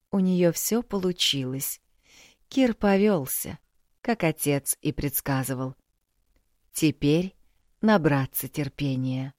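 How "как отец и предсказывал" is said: ordinary delivery, nothing marked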